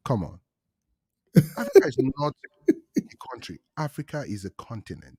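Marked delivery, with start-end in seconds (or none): 0.1-3.6 exasperated. Real, not acted. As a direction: blurt it out, fed up. Correcting the Africa-country mistake.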